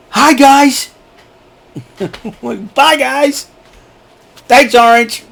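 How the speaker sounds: squeaky falsetto hi guys; high silly greeting. Pretend. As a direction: chirp it in a high goofy voice.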